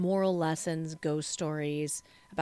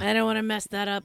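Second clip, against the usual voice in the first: hushed fast mumble; 3 semitones higher, 5 dB louder, much faster than usual. Retold or imitated.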